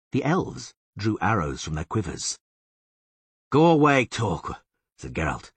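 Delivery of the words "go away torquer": tense order, loud at the start; gritted teeth. A narrator's reading. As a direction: push it out through gritted teeth. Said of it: "gritting his teeth".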